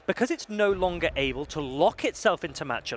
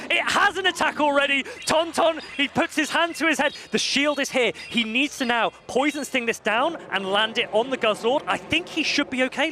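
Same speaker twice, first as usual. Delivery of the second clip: excited; 5 semitones higher than usual. Real, not acted. Climax of match commentary.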